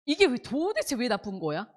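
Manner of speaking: baffled and riled up, mildly hammed-up; a touch of heated disbelief; acted indignation. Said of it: "그러면 열받아요".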